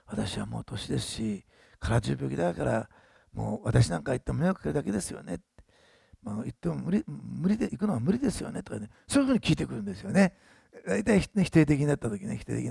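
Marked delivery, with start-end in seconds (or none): 0.0-8.6 mild imitation of a defeated old woman; negative, self-pitying quote. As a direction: sigh it out like you've given up. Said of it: "こうやって否定的に言うんですよね".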